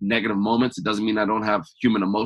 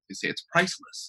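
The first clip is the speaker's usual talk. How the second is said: whispered; 7 semitones higher, 5 dB quieter than usual. Real, not acted. Hushed emphasis on priceless.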